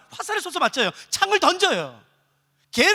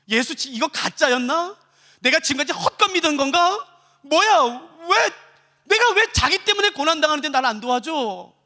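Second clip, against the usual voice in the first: doubt building into protest; conflicted doubt; 3 semitones higher than usual. Acted. Suffering believer feeling abandoned by Jesus, increasingly aggrieved. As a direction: question it, then grow indignant. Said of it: "얼마나 많은 사람이 갈등하는지 몰라요".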